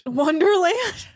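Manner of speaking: "Wonderland" with a full, stretched "land"; full "land" ending. Shown as a demonstration. Host querying her own pronunciation, "Wonderland" with full "land". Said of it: "it's land".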